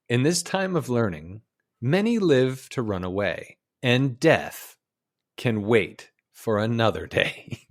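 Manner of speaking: measured documentary storyteller; nature film narration. Acted. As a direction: narrate it like an old wildlife film. Recites the film's narration.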